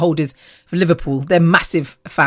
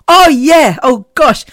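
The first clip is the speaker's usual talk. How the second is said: sudden remembering; 8 semitones higher, 6 dB louder, slower than usual. Real, not acted. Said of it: "I needed to tell you".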